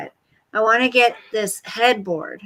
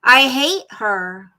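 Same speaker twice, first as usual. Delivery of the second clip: flat declaration; 3 dB louder, slower than usual. Real, not acted. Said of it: "I know I don't talk like this".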